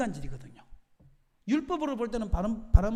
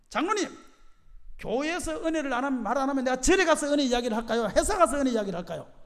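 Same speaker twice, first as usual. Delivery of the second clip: loud, higher-pitched remonstrance; retold protest; 4 semitones higher, 8 dB louder than usual. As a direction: re-enact challenging the elders, voice raised. Retelling his protest to elders.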